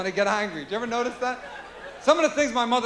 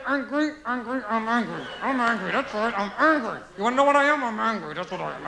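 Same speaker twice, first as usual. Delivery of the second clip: grumbling imitation of an angry mom; mock-angry mother; 3 dB quieter than usual. Mother walking around the house all day, acted angry grumble. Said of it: "walk around the house all day".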